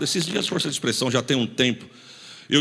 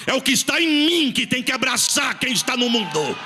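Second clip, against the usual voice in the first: preaching at full force; 6 semitones higher than usual. Acted. Pastor presses the congregation to speak like believers, preaching hard. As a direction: drive the point home to the church, urgent.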